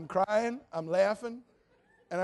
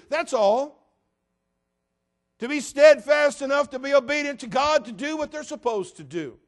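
louder, higher pulpit delivery; rising preaching; 5 semitones higher, 9 dB louder than usual. Acted. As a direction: build it up for the congregation. Preaching builds.

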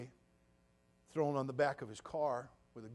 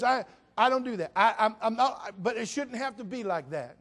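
full-force preaching; 7 semitones higher, 14 dB louder than usual. Acted. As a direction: hammer "you can't tell" each time.

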